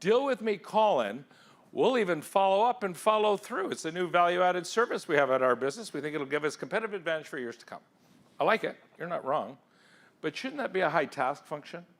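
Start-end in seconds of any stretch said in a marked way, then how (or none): 0.0-7.8 mock sales pitch. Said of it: "here's what I'm hearing".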